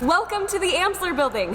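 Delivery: excited. Real, not acted. Shows off her new venue.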